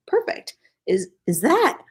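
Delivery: startled, rising pitch; surprised. Acted. Character surprised at arrival.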